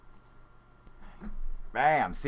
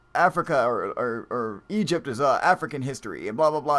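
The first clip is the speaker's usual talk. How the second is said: mock rambling commenter; 3 semitones higher, 4 dB louder than usual. Streamer parroting a chat poster's rambling, lightly mocking. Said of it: "They're like".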